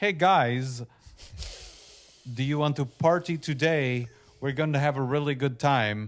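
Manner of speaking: put-on forced, trying-hard American accent. Describing someone trying to sound american when they talk, forced american accent. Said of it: "try and have this American accent".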